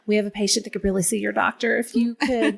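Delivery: put-on polite Southern accent, asking a favor; indistinct Southern accent. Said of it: "not my Tennessee family's accent".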